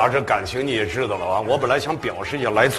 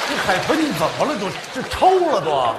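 laughing; 9 semitones higher than usual. Real, not acted. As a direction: tease him while laughing. Teasing the dolphin singer.

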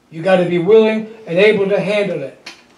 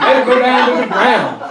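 laughing. Real, not acted. Laughing through the praise.

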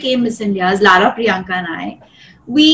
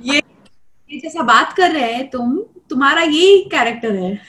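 fast Hyderabadi Dakkani, slightly higher; Hyderabadi accent; 4 semitones higher, much faster than usual. Shown as a demonstration. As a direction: rattle it off in Hyderabadi style. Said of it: "say that in an Hyderabadi accent".

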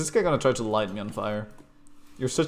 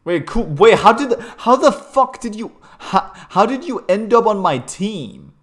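very high, loud disbelief; incredulous outburst; 10 semitones higher, 11 dB louder than usual. Real, not acted. Player asking how someone ended up on his team, incredulous. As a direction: shout it high, stumbling over the question. Baffled by a teammate in game.

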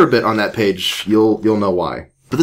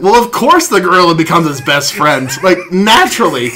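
mock matter-of-fact; 7 semitones higher, 5 dB louder than usual. Sarcasm about the absurd plot.

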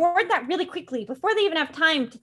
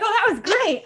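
laughing; 7 semitones higher, 5 dB louder than usual. Retold or imitated. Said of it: "He's like".

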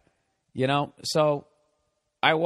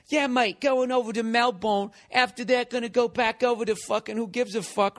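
mock English accent; 10 semitones higher than usual. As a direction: ham up a chatty English guy talking on his cell. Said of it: "So he sounds like he's in, you know, Lock, Stock".

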